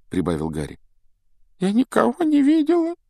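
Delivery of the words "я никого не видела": high, sorrowful ghost reply; mournful ghost girl. A narrator's reading. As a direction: answer with heavy sorrow. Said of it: "сокрушённо ответила Миртл".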